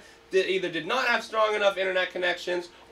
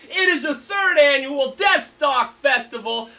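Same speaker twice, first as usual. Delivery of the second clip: festival hype shout; 4 semitones higher, 5 dB louder than usual. Real, not acted. Host announcing festival lineup.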